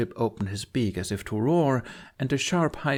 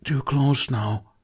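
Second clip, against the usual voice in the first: dragon moan; 3 semitones higher, 3 dB louder, slower than usual. A narrator's reading.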